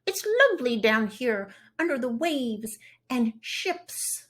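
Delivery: puffed-cheek, pursed-lip fish. Acted. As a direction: talk through pursed lips like a fish. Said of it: "puff out your cheeks and purse your lips".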